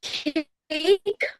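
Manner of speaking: "cake" with a long stretched A, rising; drawn-out sound demo. Shown as a demonstration. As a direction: hold the vowel in "cake" and lift it. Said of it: "what you're doing right now".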